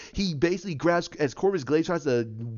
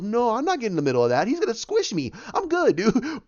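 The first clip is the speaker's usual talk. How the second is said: mock nervous refusal; 6 semitones higher than usual. Acts Spider-Man backing out.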